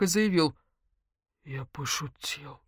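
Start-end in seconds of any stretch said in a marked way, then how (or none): 1.4-2.6 much softer, slow, lower; hasty backpedal. Acted. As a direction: back off quietly. Egor retreats, backpedalling. (тихо, поспешно отступая)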